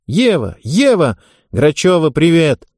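joyful shouting. Acted. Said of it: "С радостными воплями".

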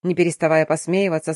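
ordinary delivery

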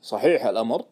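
mildly puzzled, checking; surprised question. Acted. Branch manager reading the sell order, mildly surprised. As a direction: ask it with a touch of astonishment. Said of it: "قال لي باستغراب".

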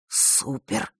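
a soft breathy exhale of the word; breathed out. A narrator's reading. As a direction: let Супер! slip out on the breath. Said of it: "выдохнул Ник". (выдохнуть «Супер!» шёпотом)

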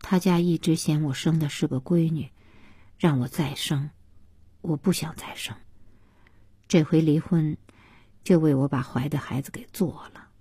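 soft, downcast explanation; understated hurt, voice kept small; rural helper, subdued. Acted. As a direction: confide it quietly. Voices Xiaoxia explaining the divorce.

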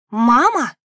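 громкий возмущённый выкрик; одёрнуть мать с негодованием; возмущённо. A narrator's reading. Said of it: "возмутилась я". (возмущённо, громко: «Мама!»)

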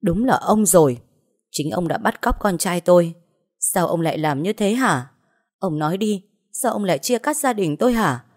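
a mother confronting her son's kidnapper; furious yell. Acted. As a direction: raw outraged shouting. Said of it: "Mẹ anh thấy vậy mới hét lên".

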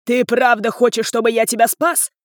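angry father taunting his son; roaring. Acted. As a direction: growl the question at him. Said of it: "проревел он".

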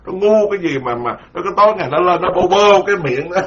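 high, mock-scolding voice, fast; high-pitched imitation of scornful monks; mocking critics. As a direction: mimic critics sneering at him. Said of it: "ta chửi tôi vậy đó".

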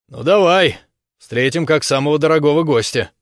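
mock welcome as a threat; menacing taunt. Угрожающая насмешка Германа. (громкая угрожающая насмешка)

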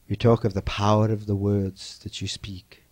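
whisper. Acted. Quiet instructional aside.

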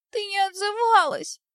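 put-on high little boy voice, tearful; a frightened child sobbing his reproach. A narrator's reading. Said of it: "всхлипнул ребёнок".

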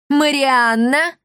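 high, loud, slow gloating call; gloating cry. A narrator's reading. The innkeeper spots Marianna, gloating cry. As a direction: relish catching her. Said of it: "злорадно вскричал Балагур".

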